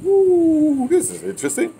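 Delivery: high whooping woo, then amused; retold delighted surprise. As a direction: act stunned and tickled by the result. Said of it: "I said".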